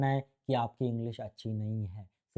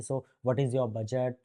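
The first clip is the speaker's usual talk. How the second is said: drawn-out, very slow English question; much slower than usual. Retold or imitated. Consultant asking the client about budget at meeting's end, very slow and deliberate. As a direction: ask it slowly and evenly, word by word.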